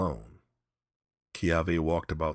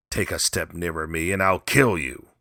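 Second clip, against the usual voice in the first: threat; 5 dB louder than usual. Acted. Old man threatens Kiave.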